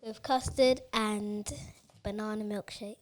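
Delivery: talking while eating; words round a bite of food; mouth full. Real, not acted. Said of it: "What's that you're eating now?".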